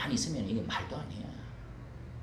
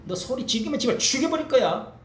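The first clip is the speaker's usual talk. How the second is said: devil's threat; 8 semitones higher, 6 dB louder than usual. Retold or imitated.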